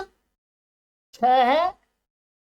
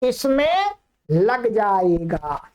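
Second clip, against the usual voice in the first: इसमें said slowly with weight, whole phrase drawn out; slow stressed answer; 4 semitones lower, much slower than usual. Shown as a demonstration. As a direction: lean on इसमें and slow right down. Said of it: "इसमें भी नहीं लगेगा".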